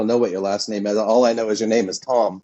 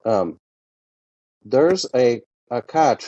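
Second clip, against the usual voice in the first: put-on Indian accent; slower than usual. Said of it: "someone from India says cat".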